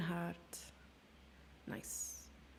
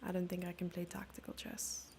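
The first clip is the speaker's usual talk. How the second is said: whisper; 7 dB quieter than usual. Real, not acted. Muttered aside while analysing.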